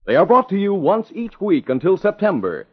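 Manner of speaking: dramatic radio announcer voice; old radio drama narrator. Acted. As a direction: build suspense for next week's episode. Announcer closing the episode.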